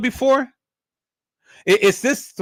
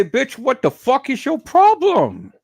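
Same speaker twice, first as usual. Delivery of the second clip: mock angry woman; 5 semitones higher than usual. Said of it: "She'll look at him and say".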